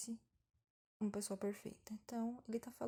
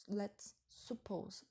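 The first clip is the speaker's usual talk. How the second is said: slow, lets stretched; drawn out; much slower than usual. Shown as a demonstration. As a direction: spell the phrase out slowly. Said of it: "vamos supor".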